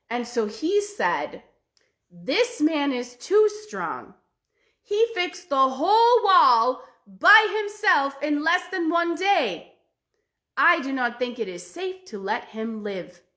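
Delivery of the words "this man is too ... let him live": a lightly voiced wary emperor, rising on the middle. Emperor to himself about the strong brother, uneasy.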